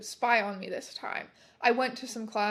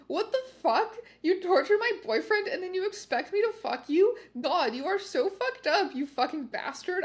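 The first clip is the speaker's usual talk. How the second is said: much higher, outraged rant; angry outburst; 7 semitones higher than usual. Acted. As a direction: tear into him in disgust. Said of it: "I said angrily".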